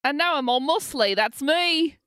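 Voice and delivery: hammed-up British accent, rising at the end; British Spider-Man. Host joins the British Spider-Man bit, in a bad British accent. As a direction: show off in a mock British voice. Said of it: "there's a British Spider-Man".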